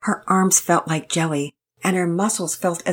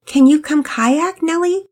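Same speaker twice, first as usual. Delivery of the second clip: put-on little girl asking; 10 semitones higher, 6 dB louder than usual. A narrator's reading. Pearl asks Nellie to come kayak, high and pleading. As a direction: ask sweetly, drawing it out.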